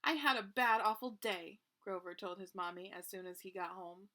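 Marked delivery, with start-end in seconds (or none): 0.0-1.6 loud, whiny opening; woeful complaint. Acted. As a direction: moan it out to mommy. Grover tells his mommy.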